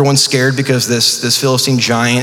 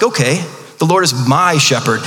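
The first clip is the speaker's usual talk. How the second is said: read with confidence. Retold or imitated. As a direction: declare it like you truly mean it. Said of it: "I read it with confidence".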